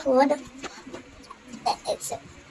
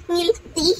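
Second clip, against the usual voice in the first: laughing; 4 semitones higher, 3 dB quieter than usual. Real, not acted. Laughs while showing eraser.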